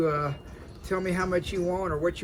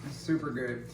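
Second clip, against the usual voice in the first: talking with a mouth full of ribs; words around a bite of food; 2 semitones lower than usual. Real, not acted. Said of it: "asking me questions with my mouth full".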